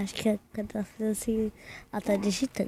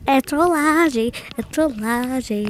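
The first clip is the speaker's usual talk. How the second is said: drawn-out prank reveal; 3 semitones higher, 5 dB louder, much slower than usual. Real, not acted.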